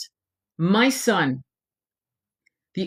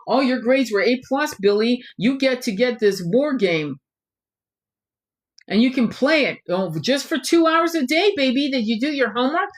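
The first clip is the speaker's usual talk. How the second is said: mock doting parent; 3 semitones higher than usual. Mocks an indulgent parent.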